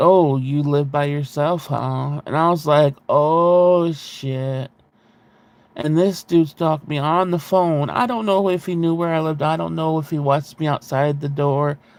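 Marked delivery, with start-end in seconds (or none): 0.0-2.2 put-on disgusting voice, slower. Retelling a wrong-number caller, imitating his disgusting voice. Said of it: "he turned into like this disgusting voice thing".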